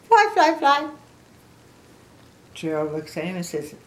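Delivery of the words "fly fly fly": high, loud, rapid-fire chirping; Piggy. Acted. Piggy flaps her hands like wings, high excited chant. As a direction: repeat it excitedly in a high bouncy voice. Piggy bounces back, flapping.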